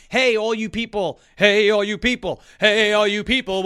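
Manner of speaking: cartoonish sing-song calling out; SpongeBob impression. Mocking a pandering pitch with a cartoon voice. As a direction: hail the crowd like a cartoon sponge. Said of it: "devolved into SpongeBob".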